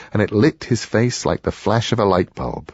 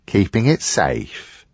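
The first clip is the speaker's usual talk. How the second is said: slow, disbelieving repeat of "Keeping it safe?"; incredulous echo; slower than usual. Acted. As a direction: throw "Keeping it safe?" back at him, slowly. Tom echoes the excuse in disbelief.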